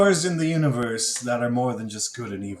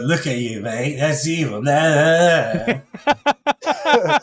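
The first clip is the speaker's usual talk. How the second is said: sneering mock voice of him; mock him, rising into a high jeer; mocking impression; 3 semitones higher, 4 dB louder, much slower than usual. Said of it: "mock him as".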